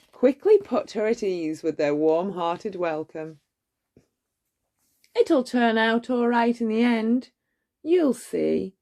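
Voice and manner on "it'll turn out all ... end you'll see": gentle motherly teapot reassurance, lightly voiced; soothing. A narrator's reading. Missus Potts comforting frightened Belle, soothing. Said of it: "soothed Missus Potts".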